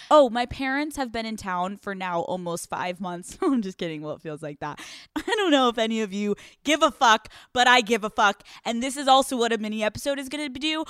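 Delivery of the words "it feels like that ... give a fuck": ordinary talk, nothing marked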